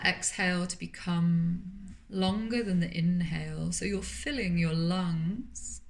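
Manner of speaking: calm, unhurried voice with long pauses between phrases; guided meditation. Acted. Yoga teacher settling listeners into Yoga Nidra, calm guided meditation. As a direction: gently guide them into stillness, leaving space to breathe.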